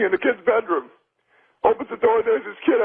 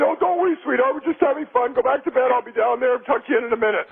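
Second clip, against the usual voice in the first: reassuring joke father; 3 semitones higher than usual. Acted. Father sending his kid back to bed, lightly reassuring. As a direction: brush the child's worry off, pitch easing down.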